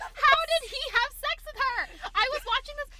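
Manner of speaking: high, loud indignant yell; outraged shout. Real, not acted. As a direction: protest it loudly, in disbelief. Outraged complaint continues.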